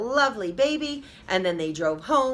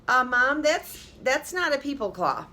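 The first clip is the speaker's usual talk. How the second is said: put-on puzzled girl voice; 6 semitones higher than usual. A narrator's reading.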